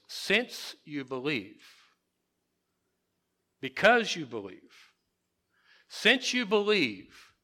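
reading it as a settled fact; stress on since. Shown as a demonstration. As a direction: land each "since" and "because" firmly. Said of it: "the real meaning is".

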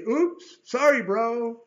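loud, high, breezy brush-off; mock flippant borrower; careless excuse. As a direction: shrug off losing a borrowed axe. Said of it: "it would be real easy to say".

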